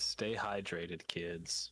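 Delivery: slow, low gruff monster hunter voice; Geralt. Retold or imitated. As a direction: drawl it low like a weary witcher. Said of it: "Geralt of Rivia says".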